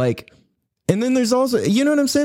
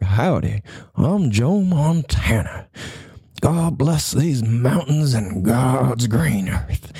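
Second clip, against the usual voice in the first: Montana cowboy; 3 semitones lower, much slower than usual. Retold or imitated. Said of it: "if you're from Montana".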